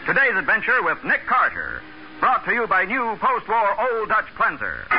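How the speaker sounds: normal talking voice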